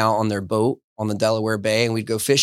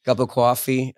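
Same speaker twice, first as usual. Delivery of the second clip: New York accent. Shown as a demonstration. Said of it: "these accents come out".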